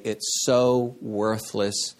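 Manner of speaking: trailing, half-whispered careless dismissal; dismissive mock quote. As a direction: throw the body away with a shrug. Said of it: "to say".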